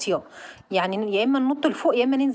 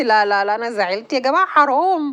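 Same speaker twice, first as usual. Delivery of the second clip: louder "no, no, no" at losing; loud disappointed protest; 4 dB louder than usual. Real, not acted. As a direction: cry out at losing so close. Loses just before the finish. (احتجاج عالٍ بخيبة أمل)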